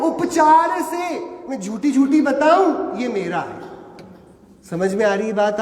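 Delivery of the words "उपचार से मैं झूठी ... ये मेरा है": emphatic disclaimer. Shown as a demonstration. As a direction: proclaim it boldly, almost a shout. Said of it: "मैं disclaimer दे रहा हूं".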